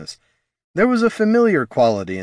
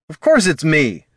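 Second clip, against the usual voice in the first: grumbling; 7 semitones higher, 5 dB louder than usual. Acted. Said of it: "grumbled the bard".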